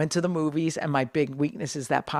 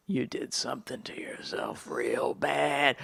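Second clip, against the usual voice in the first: groaning to self; 4 semitones lower, 12 dB quieter, slower than usual. Retold or imitated. Groaning after overeating, retold.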